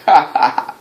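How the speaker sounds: a taunting ha ha ha, lightly acted; mocking laugh. Wrestler mocking his opponent, imitated gloating laugh. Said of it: "he's just laughing like".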